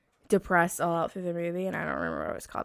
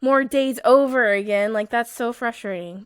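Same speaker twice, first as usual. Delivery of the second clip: frustrated; 3 semitones higher, 6 dB louder than usual. Retold or imitated. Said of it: "I was so sad and so frustrated".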